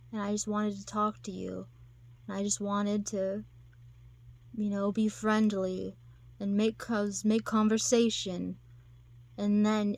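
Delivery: mildly hurt, retold confession; understated sadness with pauses; sad. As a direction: act out a wounded admirer, haltingly. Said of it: "And he's all sad".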